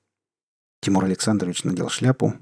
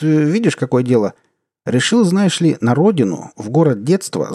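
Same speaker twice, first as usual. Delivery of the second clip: louder, higher, chummy bureaucrat; hearty official; 4 semitones higher, 4 dB louder than usual. Acted. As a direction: play the back-slapping boss. Deputy minister's breezy phone talk.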